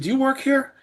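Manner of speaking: high-pitched quick check with a stranger; acted-out urgent question, pitched well up; retold urgent question. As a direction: call up high to an employee mid-task. Calling to employee during CPR.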